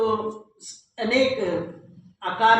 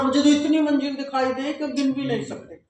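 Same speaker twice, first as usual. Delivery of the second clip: slightly raised, forceful mock boast; mock emphatic boast; 4 semitones higher than usual. Blind man outdoing others' claims about the floors, mock emphatic boast. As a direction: push it out like someone outdoing the rest. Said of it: "अगला तो फिर जोर लगा के बोल रहा".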